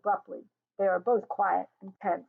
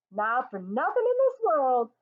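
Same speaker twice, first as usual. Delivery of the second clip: laughing tease; 5 semitones higher, 5 dB louder than usual. A narrator's reading. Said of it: "she finally laughs aloud at him".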